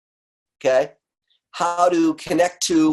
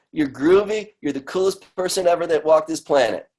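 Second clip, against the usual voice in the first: kind inner voice; 2 semitones higher than usual. Retold or imitated. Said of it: "that voice will say".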